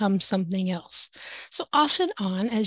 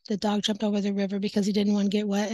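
fast, mechanical read like a computer; mock computer reading; faster than usual. Teacher imitates student who reads like a computer, fast and mechanical. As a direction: rattle it off like a machine. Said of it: "he sounds like a computer".

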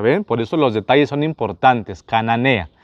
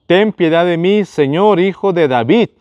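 mild mock cry for mercy; 5 semitones higher than usual. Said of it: "Esa mujer gritaba diciendo".

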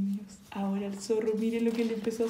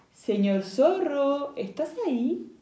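calling out; 5 semitones higher, slower than usual. Acted. Calling the sleeping fox.

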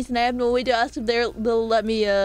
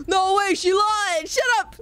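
surprised; 7 semitones higher than usual. Real, not acted. Reacting to chat.

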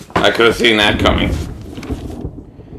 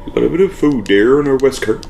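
put-on country English accent; 3 semitones higher than usual. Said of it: "a country English person saying whisker".

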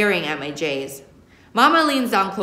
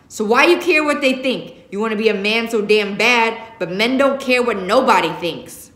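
louder, higher heated lecture; 3 semitones higher, 5 dB louder than usual. Acted. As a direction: drive the lesson home hard. Father lecturing son.

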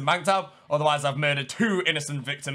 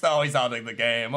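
ordinary talk

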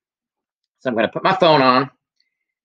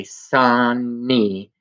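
slow syllables. Shown as a demonstration. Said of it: "put your hand on your chin and say".

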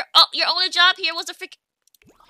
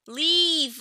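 irritated; 5 dB louder, much slower than usual. Real, not acted. Ordering Sim to leave.

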